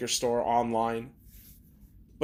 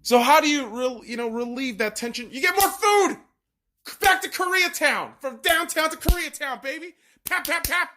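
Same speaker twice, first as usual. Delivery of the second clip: a mock Asian accent, pitched well up and excited; 10 semitones higher than usual. Frustrated vlogger cheers himself up with food, mock Asian accent. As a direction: keep the put-on Asian accent, now cheerful. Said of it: "I'm gonna bust that voice out sometimes".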